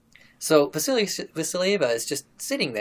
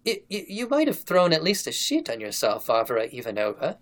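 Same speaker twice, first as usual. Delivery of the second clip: gentle stammer; 3 semitones higher than usual. Retold or imitated. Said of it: "he said in a gentle voice".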